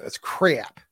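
exaggerated Midwestern accent. Shown as a demonstration. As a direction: lean into the Midwestern vowel in CRAP. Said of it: "in my Midwestern accent".

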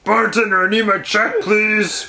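lightly put-on cartoon heavy; a hint of comic cartoon character voice; Bluto. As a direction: call to the bartender in a mock character voice. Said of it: "You sound like Bluto or something".

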